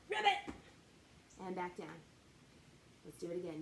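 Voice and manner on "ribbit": high loud ribbit; frog ribbit. Shown as a demonstration. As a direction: croak like a happy frog. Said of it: "say ribbit really loud".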